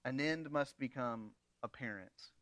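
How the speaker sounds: low, quiet, stern parental warning; a hint of a strict father laying down the law; firm parent. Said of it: "Just like a good parent says".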